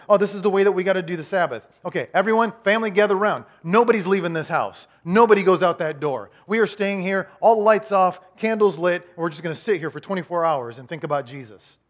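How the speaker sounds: lightly mock a rigid dad; bossy legalistic parent. Legalistic father ordering family to keep Sabbath, bossy.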